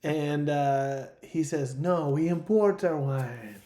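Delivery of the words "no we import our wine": put-on slow, forced old Hollywood accent; forced forties Hollywood accent. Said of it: "a forced accent that you could only have in nineteen forties Hollywood".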